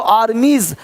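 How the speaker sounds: "आर्मीज" with a light buzz at the end. Shown as a demonstration. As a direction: say "आर्मीज" as ar-meez. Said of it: "हल्का सा ज का sound".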